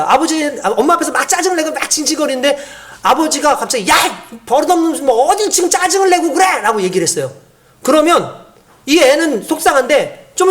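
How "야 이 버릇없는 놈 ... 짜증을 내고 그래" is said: higher-pitched mock telling-off; scolding father. Father rebuking a whining child, acted angry scolding. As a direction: act a father's sudden rebuke.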